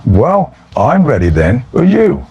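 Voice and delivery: bright, chirpy, rising at the end; chipper. Retold or imitated. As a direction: sound freshly keen and ready. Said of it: "all chipper and energetic".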